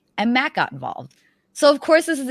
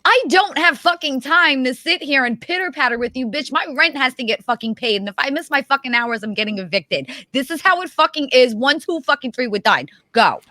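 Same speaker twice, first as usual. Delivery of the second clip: louder, higher impatient rant; mock New Yorker rant; 6 semitones higher, 3 dB louder than usual. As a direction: hurry them up, fed up and blunt. Mock rant at slow talker.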